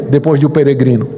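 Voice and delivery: ordinary delivery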